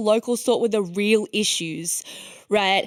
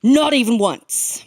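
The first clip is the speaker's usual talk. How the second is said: ad voiceover; much slower than usual. Retold or imitated. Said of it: "And then it goes".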